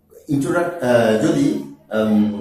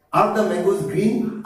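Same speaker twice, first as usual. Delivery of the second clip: each word of Are the mangoes green? drawn out very slowly; slow drill; 4 semitones higher, much slower than usual. Shown as a demonstration. Teacher to students, modelling the question very slowly. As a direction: spell the question out slowly for learners.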